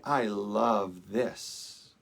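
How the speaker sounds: I leaned on, slow and drawn out; stress on I. Shown as a demonstration. Minister showing the soul's self-centered love, with stress on I. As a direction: hit the word I, then let the rest fall away. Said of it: "the emphasis is on I".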